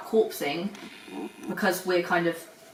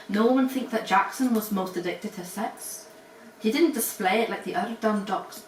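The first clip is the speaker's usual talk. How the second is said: put-on Scottish accent. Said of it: "is to do Scottish accents".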